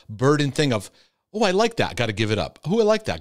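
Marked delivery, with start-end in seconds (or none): 1.3-2.0 high, quick burst of liking; mock delight. Person voicing their own thought on liking something, mock delight. Voices the guilty inner reaction. 2.0-2.6 resigned self-denial. Acted. Voices the guilty inner reaction. 2.6-3.2 high, quick burst of liking; mock delight. Person voicing their own thought on liking something, mock delight. Voices the guilty inner reaction.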